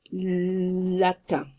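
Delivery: "Latin" slowly, French nasal ending, no final n; French pronunciation. Shown as a demonstration. Teacher models the French word for students, French pronunciation. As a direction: draw out "Latin" with a French nasal last vowel. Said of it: "you say that".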